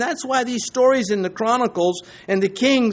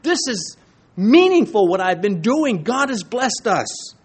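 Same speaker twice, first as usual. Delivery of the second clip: higher-pitched voicing of a confident man; assured; 3 semitones higher, 4 dB louder than usual. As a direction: declare it with full assurance. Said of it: "He's assured".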